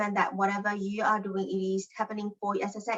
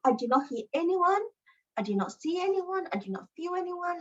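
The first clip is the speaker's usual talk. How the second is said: voicing the silent guides, higher and hollow; mock spirit reply; 8 semitones higher than usual. Spirits answering her call, a high eerie voice.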